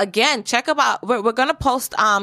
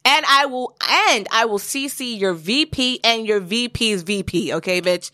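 politely impatient. Retold or imitated. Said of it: "in the most corporate way".

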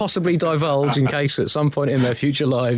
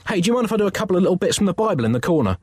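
eager; 6 semitones higher, much faster than usual. Acted. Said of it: "replied Michelangelo".

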